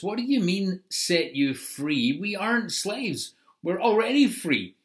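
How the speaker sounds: mildly indignant crowd objecting. Acted. Crowd retorting to Jesus, lightly indignant.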